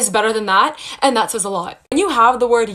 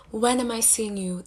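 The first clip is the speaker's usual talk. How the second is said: lame mock quote; 10 dB quieter than usual. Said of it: "the most lame beta bottom way".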